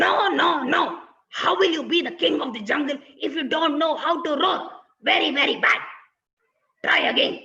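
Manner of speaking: loud annoyed king father; angry lion papa scolding his son. Acted. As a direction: tell the cub off sternly.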